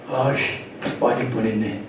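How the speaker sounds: low, soft muttered curse of relief; relieved cursing mutter. Retold or imitated. A child alone in his room after the scolding, a soft low mutter. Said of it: "문 딱 잠그면서 뭐래?".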